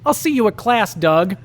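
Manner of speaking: a hint of Patty, sweet but final; Patty letting him down. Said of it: "Patty Mayonnaise blinked once and said".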